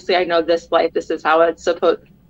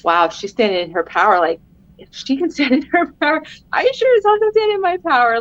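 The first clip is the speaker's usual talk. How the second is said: climbs much higher, from a hushed wow to a bright cry; inner pep talk; 7 semitones higher than usual. Retold or imitated. Mom inspired by her daughter, building to an excited cry. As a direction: psych yourself up, rising to a peak. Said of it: "And I'm like".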